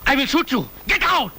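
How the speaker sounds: man at gunpoint yelling at the intruders to leave, shouting; shouted order. Acted. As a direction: bark it at the thugs at full force. Threatening thugs at gunpoint.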